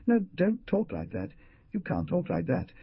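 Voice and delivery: horrified scream. Acted. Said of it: "screamed horrorized".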